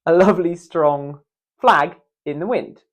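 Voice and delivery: taut, sustained, full voice; full voiced demo. Shown as a demonstration. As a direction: push a steady strong stream of air. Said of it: "it's ridiculous".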